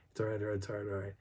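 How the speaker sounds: soft, low-key reassurance; murmured comforting repetition; retold soothing. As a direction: quietly settle a shaking dog. Soothing the shaking dog.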